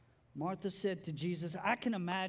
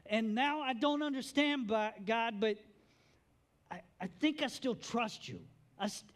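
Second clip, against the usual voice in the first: anguished prayer; 5 semitones higher than usual. Pretend.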